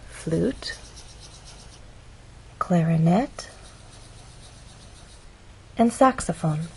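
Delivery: "flute", "clarinet", "saxophone" set apart by long pauses; stressed list words. Shown as a demonstration. Teacher picking out three final content words, stressed list. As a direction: lift "clarinet," and let "saxophone" fall. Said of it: "three final content words that receive stress".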